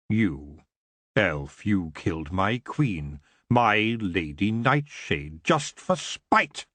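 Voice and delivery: low, slow menace, rising on spite; growled. Acted. Elf king accusing the elf who killed his queen, growling. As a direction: spit each word at the elf. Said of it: "he growled".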